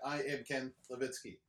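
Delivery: stiff mechanical robot voice. Pretend. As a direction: speak like a monotone robot. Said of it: "why'd you go robot voice".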